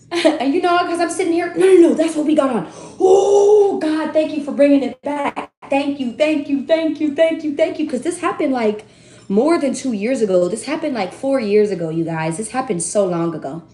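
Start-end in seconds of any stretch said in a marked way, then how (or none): 3.0-7.9 excited gushing thanks. Real, not acted. Excited over the returned memory.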